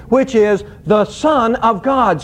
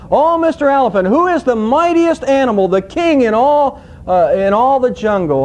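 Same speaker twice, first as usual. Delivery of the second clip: higher, lightly voiced cocky lion; boastful lion; 4 semitones higher than usual. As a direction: puff up like a lion sure of the answer. Lion questions the elephant in joke.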